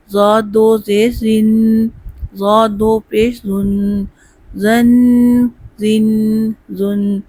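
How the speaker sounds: slow, spelled-out drill for students to repeat; slow drill recitation. Shown as a demonstration. Teacher leading a spelling drill, slow. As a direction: chant each syllable slowly.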